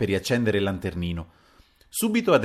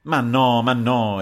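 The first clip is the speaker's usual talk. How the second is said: loud, higher objection; emphatic raised-voice denial; exclaimed protest; 3 semitones higher, 6 dB louder, slower than usual. A narrator's reading. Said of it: "esclamò il Paleari".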